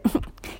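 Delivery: short breathy giggle; soft giggle. Acted. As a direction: giggle quietly under the breath. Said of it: "kicherte Miss Glitzer".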